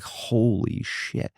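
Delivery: slow, drawn-out disbelief; stunned. Retold or imitated. Suspect realising partner won't help, slowly stunned. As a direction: stretch the words out in dismay. Stunned reaction to refusal, retold.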